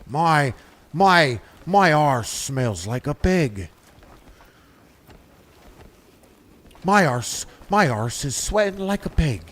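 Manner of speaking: lightly voiced bland townsperson, drawn out; deadpan imitation of a dull NPC greeting; mock NPC. Streamer mocks townsfolk who ignore him with a mild NPC voice. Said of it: "they're like".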